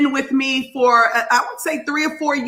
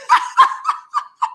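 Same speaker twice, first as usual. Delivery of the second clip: high, airy giggle; breathy laugh. Real, not acted. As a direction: laugh under your breath. Laughs at her own remark.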